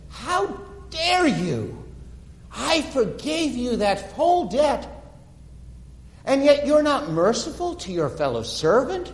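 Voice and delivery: the king's outrage, slowing on the accusation; king rebuking the unmerciful servant; outraged rebuke. Acted.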